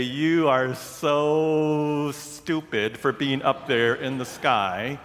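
slow taunt with a long, stretched "so"; teasing, drawn-out call; mock taunt. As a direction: draw it out slowly to tease them. Mock greeting to climbers overhead.

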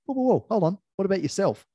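high, loud whoa hold on; emphatic interruption. Retold or imitated. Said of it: "I often jump in and say".

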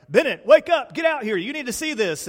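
put-on loud, high call to wake the boy; calling out excitedly. Father calls son Bennett to see helicopters, loud excited. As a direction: shout the kid awake, excited.

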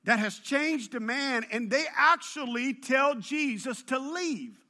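worked-up sermon storytelling; animated preaching. Real, not acted. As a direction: preach it out high and forceful. Preaches with raised force.

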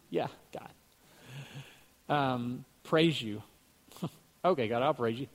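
flat, half-hearted thanks to God, broken by chuckles; going through the motions, not meaning a word; unbelieving praise. Retold or imitated. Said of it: "I said it just like that, not believing".

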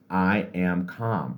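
unhurried, relaxed mantra; slow calm affirmation. Shown as a demonstration. Coach gives an example affirmation, slow and calm. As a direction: take each word very slowly. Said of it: "do it very slowly".

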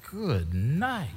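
slow, drawn-out exclamation of disbelief; mock exasperation. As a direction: stretch each word in hammed-up exasperation. Acting exasperation at endless talker.

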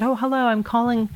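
a touch of telephone voice; phone greeting. Retold or imitated. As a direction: open a polite call to a stranger. Acted phone call to pilot.

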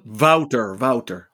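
Wouter as VOW-ter, falling and deliberate; correcting pronunciation. Shown as a demonstration. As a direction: model Wouter clearly for a learner, VOW-ter. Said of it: "we need to work on your".

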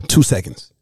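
sharp gasp after swallowing; gasp after a sip. Real, not acted. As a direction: catch the breath after drinking. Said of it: "Take this sip one time".

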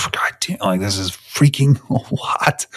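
mock-weary, breath-heavy grumble; overwhelmed exasperation. Recalling how much thirty was, in overwhelmed exasperation. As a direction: sigh it out under your breath, half laughing. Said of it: "thirty was like".

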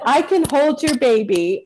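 a hint of a kindly grandmother; older woman offering to help, lightly voiced; lightly voiced grandma. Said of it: "she said".

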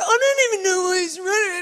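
mock cry, shouted out; half-laughing wail of protest; exasperated shout. Friend shouting at husband in the airport, exasperated. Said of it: "And Joel's like".

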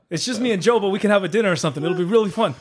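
put-on lilting, lightly Italian-accented invite. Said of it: "almost sounds like an Italian accent".

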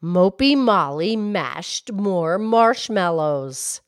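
slow, careful tongue twister; a teacher modeling a tongue twister slowly; slow tongue twister demo. Shown as a demonstration. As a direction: say every M sound slowly and clearly. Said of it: "here's one".

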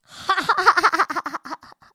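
loud, high, boastful burst of laughter; hare's laugh. A narrator's reading. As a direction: throw back your head and laugh at him. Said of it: "خرگوش ہنسنے لگا".

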